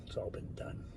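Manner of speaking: breathy whisper, barely voiced. Real, not acted. Rambling to camera, he whispers it to himself. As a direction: let it slip out as a hushed whisper.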